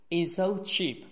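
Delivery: "it's so" joined with one single s; merged S. Shown as a demonstration. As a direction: say one s across "it's so cheap". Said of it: "两个是只读一个". ("it's so cheap"只读一个s)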